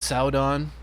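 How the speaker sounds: "Sauron" said "SOW-don", the r flapped to a d sound; Galadriel's Sauron. Retold or imitated. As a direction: mimic Galadriel: "Sauron" with a tapped d-like r. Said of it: "Saying it like that because Galadriel says Sauron".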